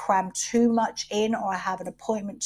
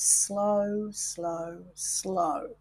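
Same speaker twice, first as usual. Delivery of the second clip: slow; 5 dB quieter, much slower than usual. Shown as a demonstration. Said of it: "very fucking slowly".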